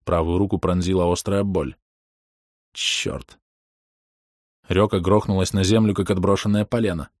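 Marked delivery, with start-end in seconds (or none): 2.7-3.4 soft unvoiced curse; hushed muttered oath; whispered curse. A narrator's reading. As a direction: breathe the curse out. Narrator curses under breath.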